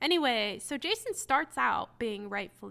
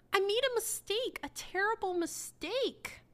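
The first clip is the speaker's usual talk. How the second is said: mock wailing apology; 8 semitones higher than usual. Mock voicing Lucinda's excuse.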